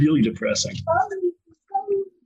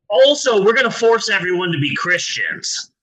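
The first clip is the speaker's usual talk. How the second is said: sarcastic mock voice; 3 semitones higher than usual. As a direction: sneer it like a hypocrite. Mock Christian voice, louder.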